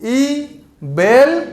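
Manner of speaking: ओ ई बेल stretched out very slowly, syllable by syllable; drawn-out mnemonic. Shown as a demonstration. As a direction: drag out ओ ई बेल with a chuckle. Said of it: "देखो".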